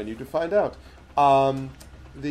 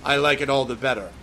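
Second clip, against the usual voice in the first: higher, louder scornful giantess; mocking giantess; 3 semitones higher, 4 dB louder than usual. Giantess mocking the gnome and claiming power, higher and louder. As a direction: sneer down at the little one.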